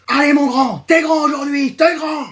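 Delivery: high, fired-up cheering; eager high-pitched encouragement; pep talk. Acted. Hypes up own game character.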